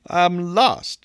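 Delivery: lightly voiced whimpering lost girl; mock whimper. A narrator's reading. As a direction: whimper it, drawing out the last word. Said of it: "she whimpered".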